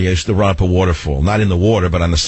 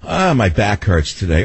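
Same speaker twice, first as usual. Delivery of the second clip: high, drawn-out "Oh", then complaining; mildly mock an aging complainer; lightly acted groaning about aches; acting old; 5 semitones higher, slower than usual. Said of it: "people in their forties say".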